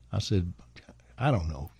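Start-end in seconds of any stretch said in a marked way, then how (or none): 1.2-1.7 hushed, breathy, lower and soft; whisper. Retold or imitated. Storyteller whispering his own line to a famous singer. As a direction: drop to a whisper before the punchline. Whispered aside in retold talk.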